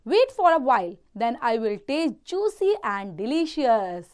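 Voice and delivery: slow read-aloud with a light hint of a pleading lamb; slow story reading. A narrator's reading. Teacher reading Lexi's plea to the wolf for children, slow. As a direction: read the lamb's plea slowly for the class.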